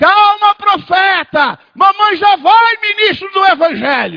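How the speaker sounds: loud, high-pitched shouting. Retelling how the mother shouted through the hallway hatch: imitating mother shouting. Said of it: "e gritava".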